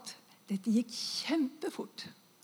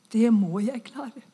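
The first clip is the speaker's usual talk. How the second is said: louder, firm repeat of the resolve; 5 dB louder than usual. Retold or imitated. Dying woman gathering strength, firm resolve. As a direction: say it again with growing strength. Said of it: "Og så tenkte jeg".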